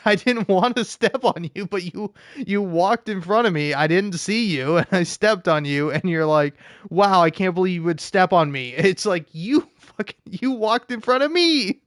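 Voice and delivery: high, laughing protest at the cat; laughing scold. Real, not acted.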